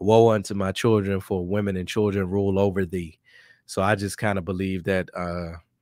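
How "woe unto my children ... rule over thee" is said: ordinary delivery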